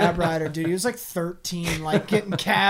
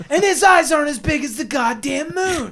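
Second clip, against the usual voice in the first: shouted high through laughter, louder; laughing shout; 9 semitones higher, 5 dB louder than usual. Real, not acted. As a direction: bellow it while cracking up.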